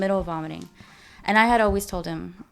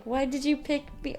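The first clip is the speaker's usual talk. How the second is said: higher pitched indignant question, tone kept soft; 7 semitones higher, 4 dB quieter than usual. Shown as a demonstration. Imagining scolding the husband, indignant and high. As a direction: ask it like an upset accusation. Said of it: "Or I guess not".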